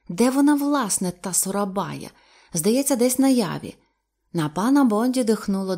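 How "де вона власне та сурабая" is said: ordinary delivery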